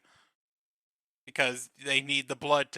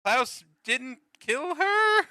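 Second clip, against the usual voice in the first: slow, high, rising question; puzzled plot-twist reveal, hammed up; mock disbelief; 10 semitones higher, much slower than usual. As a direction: draw it out into an incredulous high question.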